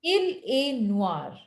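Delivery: "Il est noir" said slowly, "noir" as nwar; slow model pronunciation. Shown as a demonstration. Teacher corrects the student with a slow model. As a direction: model "J'ai un chat" slowly and clearly. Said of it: "And last one?".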